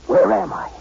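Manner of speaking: breathy whisper, half to himself; whispered thought. Acted. Stunned at the tiny girl, he whispers to himself. Narrator recalls his private thought.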